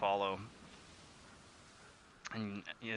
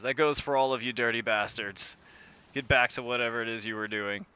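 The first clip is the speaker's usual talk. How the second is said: slightly raised, brisk captain's order; commanding; 6 dB louder than usual. Acted. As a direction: address the whole crew with authority. Captain orders the gathered crew back.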